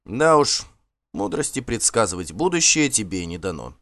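mildly contemptuous reply; a touch of disdain; scornful. Acted. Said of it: "презрительно ответил Асвальд". (с лёгким презрением)

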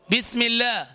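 "بسم الله" with light "bi"; thin B. Shown as a demonstration. Teacher restoring the correct basmala, thin B. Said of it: "تقرأ البسملة فتقول".

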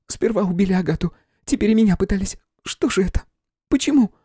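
high, anxious pleading; terrified, asking why; frightened medium. A narrator's reading. Flora in distress.

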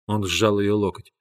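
ordinary delivery

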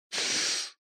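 a sharp whispered shush; hushing whisper. A narrator's reading. Malikan silences Pibrac with a whispered shush. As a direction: hush him at once, all breath.

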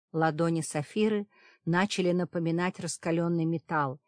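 ordinary delivery

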